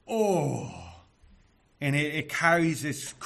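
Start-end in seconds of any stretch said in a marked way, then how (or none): 0.1-0.7 loud, drawn-out astonished exclamation; a raised cry of bewilderment; bewildered cry. Shown as a demonstration. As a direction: cry it out in astonishment, higher and louder. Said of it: "It's an emotional response of".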